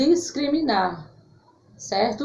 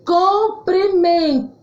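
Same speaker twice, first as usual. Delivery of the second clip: comprimento said higher and slowly, stressing the O; raised slow demo word; 6 semitones higher, 3 dB louder than usual. Shown as a demonstration. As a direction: lift and stretch comprimento like a teacher pointing at the board. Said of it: "Comprimento com O".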